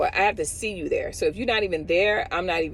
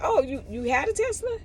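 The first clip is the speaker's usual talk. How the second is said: imitating a pointed question; 7 semitones higher than usual. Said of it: "He said".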